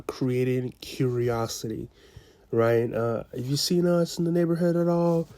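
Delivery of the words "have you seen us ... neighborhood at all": "Have you seen us" raised and curious. Shown as a demonstration. Salesman shows a curious tone to hook the homeowner. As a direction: ask it higher, with genuine curiosity. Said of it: "the tonality that I used here was a curious tone".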